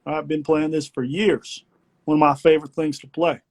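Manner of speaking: a hint of a boastful grandfather; lightly voiced grandpa pointing at a video; proud grandpa voice. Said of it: "I was gonna be like".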